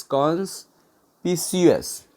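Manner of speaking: कॉन्स्पिशियस slow, a pause after कॉन्स; broken up. Shown as a demonstration. Teacher spelling it out for learners, कॉन्स्पिशियस slowly in parts. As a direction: say कॉन्स्पिशियस in two separated parts.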